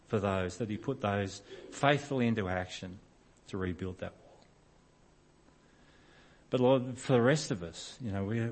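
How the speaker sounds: earnest, measured prayer voice; closing prayer. Acted. Pastor praying over the congregation at the close, earnest prayer. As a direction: pray it sincerely, slowing on key phrases.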